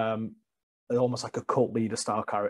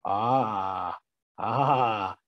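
hammed-up mock crying; 2 semitones lower than usual. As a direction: fake sobbing wail. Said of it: "looking at people going".

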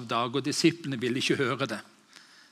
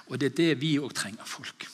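ordinary talk, nothing marked

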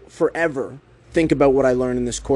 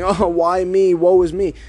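mock freaking out; 4 semitones higher, 3 dB louder, slower than usual. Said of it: "freaking out and going".

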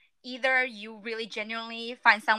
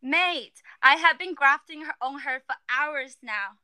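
mock British accent. Shown as a demonstration. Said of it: "Let me use it in a sentence".

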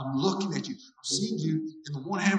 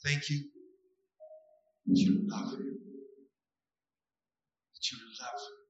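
hushed prayer. Acted. Prays over a man.

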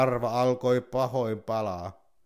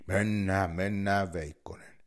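eager bear; 3 semitones lower than usual. Acted. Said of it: "innosteli karhu".

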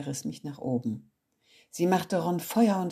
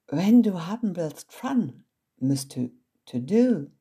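put-on louder American accent in broken German; 2 semitones higher, 6 dB louder than usual. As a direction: toss it off like an American girl. Olivia speaks broken German. (Olivia spricht gebrochenes Deutsch mit amerikanischem Akzent)

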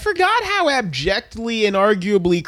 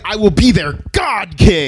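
loud, mock-grandiose proclamation; hammed-up would-be god; Light; 5 dB louder than usual. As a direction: declare it loudly, like a megalomaniac. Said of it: "He's like".

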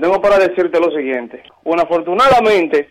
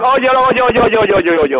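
shouting over him; 3 semitones higher, much slower than usual. Real, not acted. Victim yelling to interrupt.

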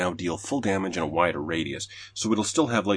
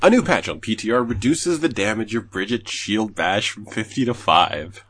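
grin through the bad news; smiling sarcasm; 5 dB louder than usual. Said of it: "can you hear the smile in my voice".

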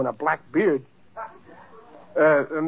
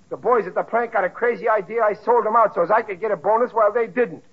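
raised, higher voice, venting at his wife; angry yelling; 5 semitones higher than usual. Acted. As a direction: shout the grievance up high. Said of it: "what's all the yelling about".

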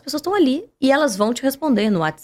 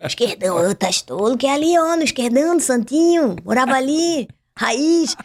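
put-on Florianópolis accent. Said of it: "vai fazendo assim".

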